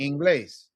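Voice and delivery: "Inglés" with weight on the final glés; ending stress. Shown as a demonstration. Teacher correcting the student, glés in "Inglés" held and stressed. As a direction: let the last syllable of "Inglés" ride. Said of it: "Let it ride on the end".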